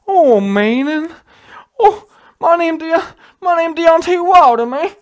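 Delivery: high, loud, whiny mock wail of a sobbing boxer; mocking Wilder crying. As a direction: ham up a crybaby Wilder, drawn out. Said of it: "Just crying".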